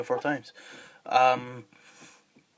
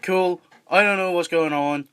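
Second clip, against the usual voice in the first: put-on casual Irish-accented character; 4 semitones higher than usual. Disguised character bluffing through the episode, in an Irish accent. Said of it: "he does an Irish accent".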